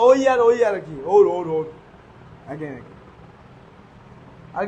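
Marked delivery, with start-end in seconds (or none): 0.1-1.7 ওই আর ওই আর, ওর ওর ওর sounded out loud, syllable by syllable; বানানটা জোরে ভেঙে ভেঙে উচ্চারণ করে দেখাও; sounding out the word. Shown as a demonstration. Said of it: "এটা কি উচ্চারণ?". (শব্দটা টেনে টেনে জোরে উচ্চারণ)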